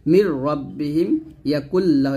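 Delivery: "মির রব্বিহিম" with the n merged into a doubled r; merged, no ghunnah. Shown as a demonstration. Teacher showing learners merging, "মির রব্বিহিম" with no nasal hold. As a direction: join "ইয়াকুল্লাহ" on a doubled l, without humming. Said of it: "এরকম মিলাব এবং আমরা গুণনা ছাড়া পড়ব".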